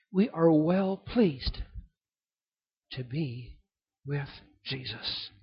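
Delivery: slow, soft, fading to a hush; hushed restatement. Shown as a demonstration. Preacher repeating the verse softly to his listeners, hushed. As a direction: let it sink in gently.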